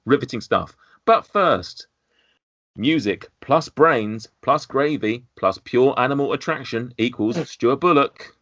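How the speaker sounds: upbeat host intro voice; podcast host intro. Acted. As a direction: read the intro like a radio host.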